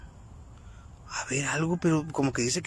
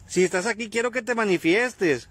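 calling out to a spirit; 6 semitones higher than usual. Real, not acted.

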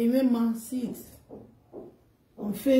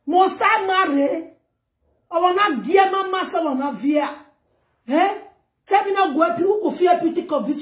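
exasperated rant; 5 semitones higher than usual. Real, not acted. Ranting rhetorical questions.

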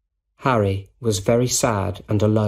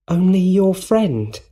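surprised; 9 semitones higher, 3 dB louder than usual. A narrator's reading. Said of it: "eyes opened in surprise".

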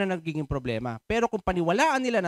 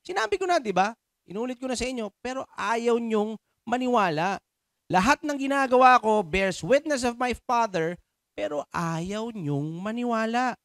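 exasperated repeating; 6 semitones higher than usual. Acted. Voices Jesus repeating himself, exasperated.

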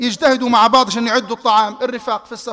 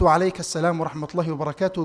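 much softer, lower reply; 6 semitones lower, 8 dB quieter than usual. Retold or imitated. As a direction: answer barely above a breath. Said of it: "بصوت منخفض".

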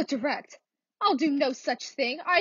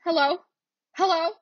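loud, anxious hello; anxious call; 3 semitones higher, 5 dB louder than usual. Acted. Frightened woman calling into the phone, loud and anxious.

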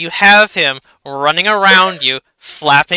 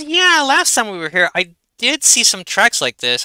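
voicing the archaeologist, pitched up; lightly raised character voice; higher NPC voice; 5 semitones higher than usual. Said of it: "And he says".

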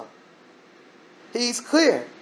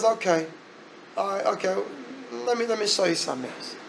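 quietly unfazed; 8 dB quieter than usual. Acted. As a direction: drop the voice as if patiently setting up proof. God patiently answers doubting Moses.

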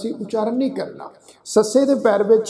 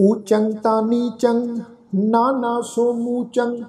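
slow, drawn-out chanting of each verse line; slow verse recitation; slower than usual. Shown as a demonstration. Teacher reciting the verse slowly for the congregation to learn.

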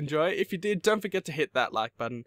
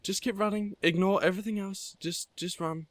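higher, tense push to keep going; urgent self-urging; 6 semitones higher than usual. Real, not acted. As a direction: pump yourself up to outrun them. Urging himself on while fleeing.

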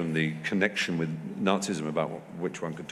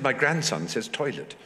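Duchess of Devonshire; 4 semitones higher than usual. Retold or imitated. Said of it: "She said".

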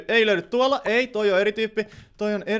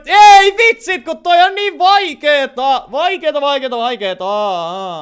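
loud, high, drawn-out wail that slowly sinks; turhautunut valitus; 8 semitones higher, 11 dB louder, slower than usual. Real, not acted. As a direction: wail in frustration, stretching the words. Turhautunut huudahdus vaikeasta pelistä. (turhautunut, kova ja venytetty parahdus)

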